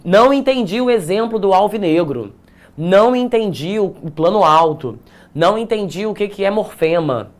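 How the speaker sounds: lightly acted student not understanding; model student question. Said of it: "você precisa botar assim".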